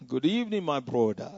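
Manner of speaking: put-on West Indian accent. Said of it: "they speak with this West Indian accent".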